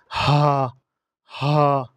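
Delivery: হা squeezed from the throat; হা, গলা চেপে; Arabic letter ha. Shown as a demonstration. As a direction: press হা breathily from the throat. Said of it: "এভাবে উচ্চারণ করতে হবে".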